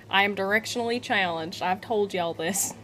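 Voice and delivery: lightly put-on Southern accent; a touch of Southern twang. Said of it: "Every time I do a southern accent".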